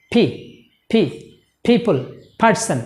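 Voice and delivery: পি, people, person each opening with a puff of air; aspirated p. Shown as a demonstration. Teacher modelling words for learners to repeat, aspirated p. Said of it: "এরকম করে উচ্চারণ করব".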